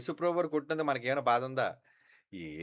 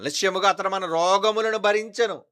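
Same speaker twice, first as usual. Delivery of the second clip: scripture reading; 6 semitones higher, 8 dB louder than usual. Acted. Pastor reads scripture aloud.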